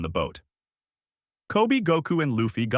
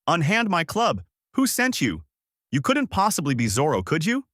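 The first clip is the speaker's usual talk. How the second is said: high-pitched outraged demands; indignant yell; 7 semitones higher than usual. A narrator's reading. Alvida to the boy who caught her club, high indignant yell. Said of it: "Alvida yelled out".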